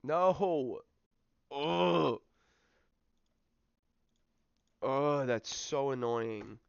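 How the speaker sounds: loud exasperated groans; frustrated yelling. Real, not acted. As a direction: yell out in real frustration. Opponent scores, frustrated player.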